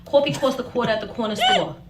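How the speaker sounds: New York accent. Shown as a demonstration. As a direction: another try at thick New York vowels. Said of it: "I have a thick New York accent".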